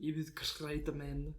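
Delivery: badly faked presidential impression; Trump. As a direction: do a comically poor politician's eulogy. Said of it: "That's my Trump impression".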